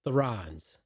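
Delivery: slow, drawn-out announcer build-up; dramatic announcement. Acted. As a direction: stretch it like a hype man. Dramatic intro of co-host.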